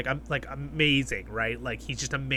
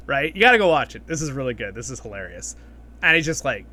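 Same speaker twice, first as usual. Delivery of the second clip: usual speaking voice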